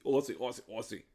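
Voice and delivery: a hint of an Aussie accent; chanting Aussie in a light put-on Aussie voice; mock Aussie. A podcaster hams up an Aussie chant for his co-host, lightly mocking. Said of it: "What voice was that?".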